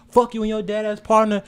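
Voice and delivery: loud, high yelled rap line; mock scream. Friend imitating a screaming rapper, loud mock yell. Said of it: "he starts screaming shit like".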